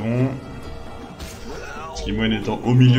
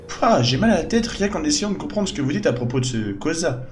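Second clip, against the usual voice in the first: put-on higher, lively young woman's voice; a cheeky adventuress, puzzled; skeptical young woman; 5 semitones higher than usual. Voices companion questioning Charleston.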